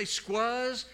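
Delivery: "squuzz" said as squuzz, rhymes with fuzz; drawn-out folksy "squuzz" for squeezed; local pronunciation. Shown as a demonstration. Preacher joking about how locals say squeezed, drawn out. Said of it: "I say squuzz".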